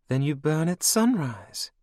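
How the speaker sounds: high, cold and mocking; villainess queen. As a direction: purr it over your captive like a cruel queen. Anne threatens the clans.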